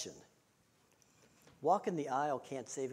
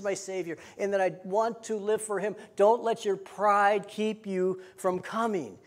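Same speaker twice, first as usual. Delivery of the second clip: driving, emphatic pulpit delivery; impassioned preaching; 4 semitones higher, 4 dB louder than usual. Real, not acted. Preacher urging listeners not to let pride stop them, impassioned. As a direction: press each phrase home to the congregation.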